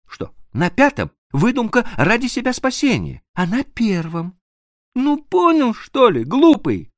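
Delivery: woman teasing her lover; teasing young woman. Acted. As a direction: tease him fondly. Annushka teasing, high voice.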